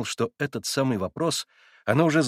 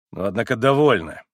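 curt cut-off; 6 dB louder than usual. A narrator's reading. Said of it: "отрезал Иван".

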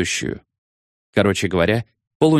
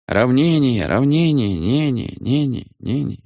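higher call fading into an echo; echoing command; 4 semitones higher, slower than usual. A narrator's reading. Many voices echoing the order, fading out. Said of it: "эхом отозвались двести пятьдесят шесть голосов".

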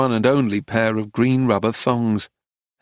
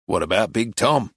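put-on musing old man's suggestion; thoughtful. A narrator's reading. Old man pauses over his juice, suggests thoughtfully. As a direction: float it as a thought just arriving. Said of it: "and then said thoughtfully".

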